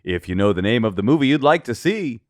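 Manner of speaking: lightly voiced automated phone announcer; Movie Phone Guy. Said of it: "I'm the Movie Phone Guy".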